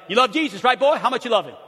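loud, high booming Italian father quizzing his son; the father asks his boy if he loves Jesus, booming; Italian dad. Retold or imitated. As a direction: belt it out like an eager Italian dad. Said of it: "he'd probably say".

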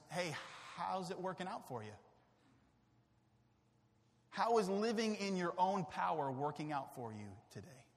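soft, quiet and gentle questioning; gentle Jesus. Acted. Jesus gently asking his wandering people, soft and caring. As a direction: ask it softly, like a caring shepherd.

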